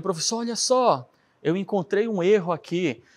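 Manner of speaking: mais agudo, aluno contando uma descoberta; aluno empolgado. Retold or imitated. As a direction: imitando um aluno que achou um erro. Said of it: "eu corri para o meu professor e falei". (aluno todo empolgado)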